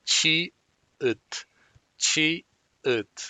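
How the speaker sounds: "Chi" with a ch, "ut" with an unreleased t; teacher demo of "chi ut"; Korean syllables. Shown as a demonstration. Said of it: "suena como T".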